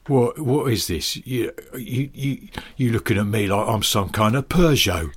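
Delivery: halting, mock-affronted Cockney; Cockney insult. Co-host invents a car insult, mock-offended Cockney. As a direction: play a lightly offended Cockney. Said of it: "what's mysterious about Cockney insults".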